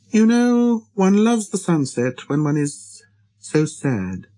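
high start, slowing as it falls; little prince, wistful. A narrator's reading. Little prince confiding in the pilot about sunsets, wistful.

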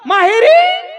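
very high, held squeal; high-pitched mock answer. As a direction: sing it out teasingly high. (उंच, ताणलेला नकली आवाज)

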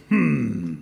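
long, low "hmm"; pondering hum. A narrator's reading. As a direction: hum low as if sizing something up. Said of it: "looks at it and goes".

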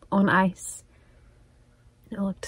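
longing whisper; hushed and wistful. Real, not acted. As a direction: whisper it with real craving. Craving the tea.

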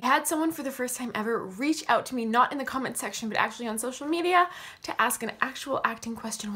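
breathless, talking between gasps; winded, short on air; out of breath. Real, not acted. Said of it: "Why am I so out of breath?".

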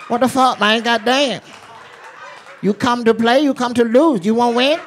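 high-pitched mock Asian dealer accent. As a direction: advise the player in a comic Asian dealer accent. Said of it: "Asian dealers are the best".

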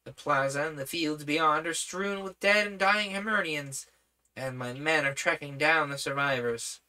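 lightly voiced young prince; a hint of an eager boy; boyish voice. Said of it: "boyish voice".

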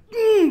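high mock-angry "mm"; angry eating grunt. Mad dealer eating froyo, imitated angry grunt. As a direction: grumble through imagined frozen yogurt.

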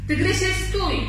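high, loud cry of alarm; acted frantic yell; desperate shout. A narrator's reading. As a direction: shout to halt someone before disaster. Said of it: "krzyknął rozpaczliwie królik".

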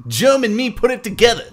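hammed-up Aussie accent; Australian accent. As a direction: play it as a broad Australian.

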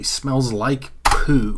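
slow deadpan hard-boiled drawl; noir man. Acted. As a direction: say it like a weary gumshoe. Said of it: "That's what a noir man would say".

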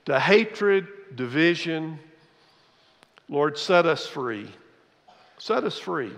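pastor's closing prayer. Acted. Leads a prayer.

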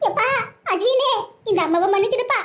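mock-weeping apology, breaking into sobs at the end; tearful lament. Mother begs dead son's forgiveness, crying. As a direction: wail it to a lost son. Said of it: "ரெண்டு பேரும் அழுதுட்டு கிடக்கீங்க".

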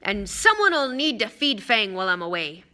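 slightly loud, pointed reminder; Hagrid, loud. Acted. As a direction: make sure hidden listeners hear. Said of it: "said loudly".

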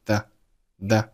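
"that" stopped before its t; unreleased t in "that". Shown as a demonstration. Teacher showing "that" with no released t. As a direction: leave the end of "that" unexploded. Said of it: "that结尾的t并没有爆出来".

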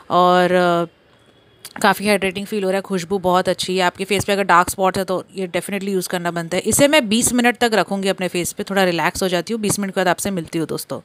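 lips moving under wet mask; relaxed talk wearing face mask; through a sheet face mask. Real, not acted. Seen 0: Wet sheet mask covers her face, mouth opening free, peeled off ~13s.

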